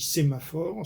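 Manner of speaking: sémaphore with an initial accent on sé; accent d'attaque. Shown as a demonstration. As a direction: stress the first syllable of sémaphore. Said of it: "ce sera la syllabe". (« sémaphore » avec accent d'attaque sur sé)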